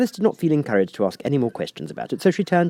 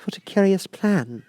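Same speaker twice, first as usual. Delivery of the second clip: exclaiming; 12 semitones higher, slower than usual. A narrator's reading. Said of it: "Alice exclaimed".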